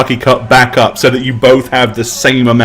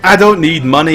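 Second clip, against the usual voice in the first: put-on Scottish accent; 4 semitones higher, faster than usual. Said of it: "he says".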